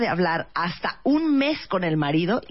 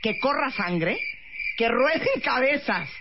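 fierce declaration; 6 semitones higher than usual. Real, not acted. Declares preference for a bloody row.

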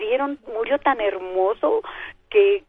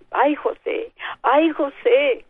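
mock lament; 5 semitones higher than usual. Mother lamenting to husband José over the daughter, wailing.

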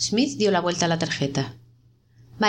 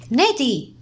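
loud cry of her name; anguished cry; 5 semitones higher, 3 dB louder than usual. A narrator's reading. Smith finds his wife dead, an anguished cry. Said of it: "gritó".

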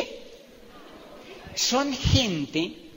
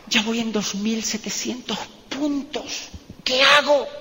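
apuro imitado. Retold or imitated. Retold anxious call from recruit.

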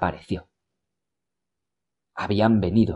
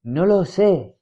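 perplexed and pained; 8 semitones higher, slower than usual. A narrator's reading. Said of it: "henchida de perplejidad y dolor".

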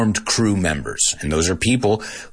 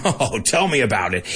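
sarcastic. Shown as a demonstration. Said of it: "with a sarcastic tone".

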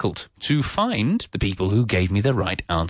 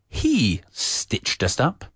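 slow, careful posh English with a full h on "He"; 3 semitones higher, slower than usual. Shown as a demonstration. Teacher contrasting with Cockney, posh English accent. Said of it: "instead of saying the posh English".

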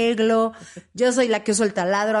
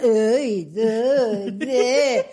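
disgusted groans; much slower than usual. Retold or imitated. Imitated husband disgusted by frogs.

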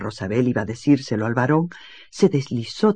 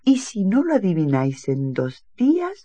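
higher, slow teasing lady; coy lady; 5 semitones higher than usual. Acted. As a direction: tease the suitor sweetly. Alicia answers the baron. (dama coqueta, voz aguda y lenta)

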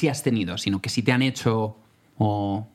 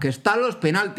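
retold urgency; 6 semitones higher than usual. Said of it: "Que tenía contracciones y nosotros".

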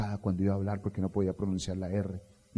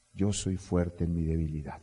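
declaration; 5 semitones lower than usual. Shown as a demonstration. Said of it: "tienes que ir al Señor y declarar".

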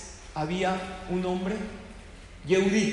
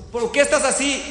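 surprised question; 7 semitones higher, 7 dB louder than usual. Acted. Someone asks the upset car owner.

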